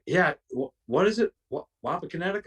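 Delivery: high, puzzled, half-listening question; imitating confused friend. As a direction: play a friend who still can't get the name. Jock confused about the name.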